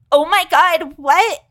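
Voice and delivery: high, loud shocked "what?"; imitating a stunned tourist; shocked gasp. Tourist stunned by free puppy, shocked gasp. American family shocked at offer.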